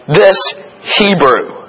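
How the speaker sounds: pointed, emphatic contempt; derisive. Acted. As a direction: say it as a put-down, landing on each word. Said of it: "that is a derisive term".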